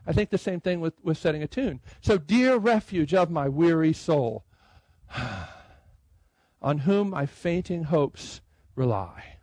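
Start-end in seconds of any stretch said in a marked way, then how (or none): 2.2-9.4 slow, with a long breath between the lines; sigh, pause, then let the second line come slowly; unhurried reading with a sigh before "on whom". Shown as a demonstration. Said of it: "it puts a pause there".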